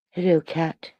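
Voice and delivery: put-on light British accent greeting; lightly put-on British voice. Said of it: "I was right to do it in a British".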